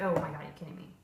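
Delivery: flat are you kidding me; quietly unimpressed at the barking dog; deadpan disbelief. Retold or imitated. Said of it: "I'm just like".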